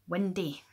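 Windy loud, vowel like wundy; Scots word Windy. Shown as a demonstration. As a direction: announce Windy. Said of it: "W I N D A E".

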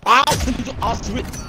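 loud, drawn-out bad German accent; terrible German accent. Player teasing his German friend, terrible fake German accent. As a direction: shout it in a hammed-up German accent. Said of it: "What a terrible German accent".

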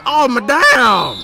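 loud, slow drawn-out groan of disbelief; exasperated outburst. Real, not acted. Gamer losing it over rushed plays, drawn out. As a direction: let it stretch out in frustration.

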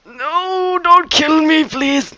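very high, loud falsetto squeal; playful high-pitched begging wail; mock pleading. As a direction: beg for your life in a hammed-up squeal. Mock begging as he gets killed.

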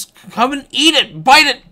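excited goading; urgent coaxing. Real, not acted. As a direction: egg the fish on, rising to a shout. Urging fish to take bait.

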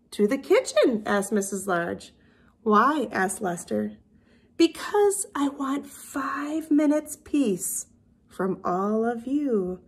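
lively storybook reading with character voices; reading to children. A narrator's reading. Teacher reading a picture book to her class. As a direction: read it to little kids with expression.

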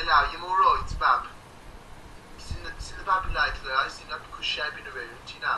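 mock Wolverhampton chatter; broad Wolverhampton accent. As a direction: lay the Wolverhampton accent on thick. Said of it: "See if you can understand this".

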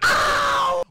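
sharp loud high "ow" of pain; pained yelp. Real, not acted. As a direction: yelp as if hit. Sudden pain cry in game.

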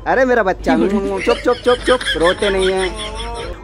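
put-on sweet shushing baby talk, drawn out at the end; babying comfort. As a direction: coo soothingly as if to a baby. Cooing to soothe a partner.

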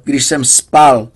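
když jsem spal said slowly, loud and pleading; dragged out, pleading. A narrator's reading. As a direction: stretch each word, begging to be believed. Patient frantic about stolen book.

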